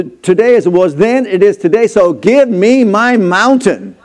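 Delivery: put-on preacher reciting an old warrior's testimony. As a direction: declaim it like scripture from the pulpit. Preacher recites Caleb's speech.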